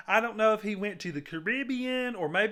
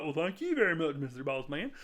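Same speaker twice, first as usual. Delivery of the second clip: Larry; 7 semitones lower, 6 dB quieter than usual. Retold or imitated. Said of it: "Larry's like".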